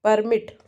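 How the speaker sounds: permit with the stress on PER; stress on first syllable. Shown as a demonstration. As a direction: lean on the first part of permit. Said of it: "first part, permit".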